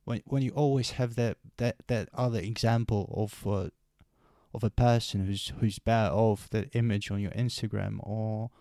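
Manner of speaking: from steady to almost shouting; building intensity. Real, not acted. Rising rant about comparison.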